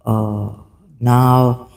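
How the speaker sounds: ordinary talk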